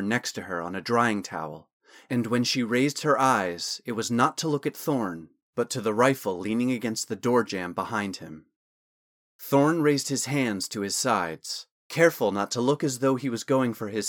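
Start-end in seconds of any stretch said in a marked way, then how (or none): none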